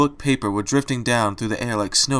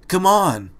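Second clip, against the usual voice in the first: sharp, much higher impatient command; snapped; 8 semitones higher than usual. A narrator's reading. Dash urging the frozen Fluttershy to help, snapping. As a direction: bark it back over your shoulder. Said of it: "Dash snapped over her shoulder".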